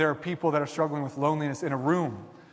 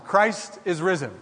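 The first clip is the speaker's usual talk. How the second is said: louder, slower proclaimed greeting; Easter call-out again; 4 semitones higher, 5 dB louder, slower than usual. Real, not acted. Pastor repeating the Easter call for the congregation's reply, loud and slow. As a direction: lift it up for the room to answer. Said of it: "So one more time".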